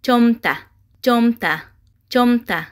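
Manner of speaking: "Чомта" evenly, with a falling end; pronunciation demo. Shown as a demonstration. Teacher has learners pronounce together, "Чомта" modelled with a fall. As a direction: model "Чомта" three times with pauses. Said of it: "Якҷоя талаффуз мекунем".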